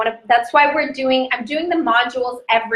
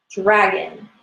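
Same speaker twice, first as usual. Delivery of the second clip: lower, drawn-out "Dragon"; meditative recitation; 3 semitones lower than usual. Real, not acted. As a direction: say "Dragon" slowly, as if guiding meditation. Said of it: "like, into meditation if you can".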